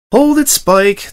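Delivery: loud, high call to stop; firm call. Acted. Unicorn stopping the eager dragon, a firm shout. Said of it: "Twilight said".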